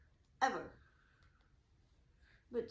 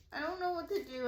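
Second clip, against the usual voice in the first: retold freaking out; 6 semitones higher, faster than usual. Stranded driver calling uncle, retold freaking out. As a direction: act out mild panic on the phone. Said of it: "I'm freaking out".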